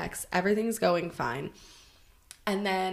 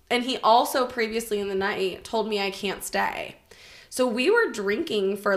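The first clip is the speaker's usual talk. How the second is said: ordinary talk, nothing marked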